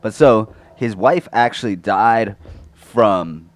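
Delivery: blurted loud into the mic; too loud. Real, not acted. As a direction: punch it out loudly. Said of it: "I said that really loud into the microphone".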